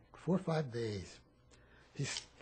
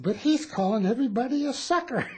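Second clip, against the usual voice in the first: laughing through the captain's complaint, a bit louder; telling it while cracking up; 8 semitones higher, 5 dB louder than usual. Retold or imitated.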